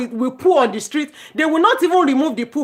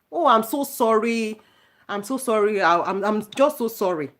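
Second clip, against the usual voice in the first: mock apology; 4 dB quieter than usual. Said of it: "you cannot even apologize".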